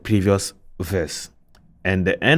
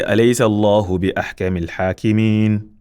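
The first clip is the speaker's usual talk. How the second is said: measured Quranic chant; Quran recitation; much faster than usual. Shown as a demonstration. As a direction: recite as in Tajweed class. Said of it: "here when we say".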